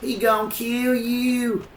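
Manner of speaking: high, loud panicked yell; urgent shout. Real, not acted. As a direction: shout a warning at them. Yelling warning in game.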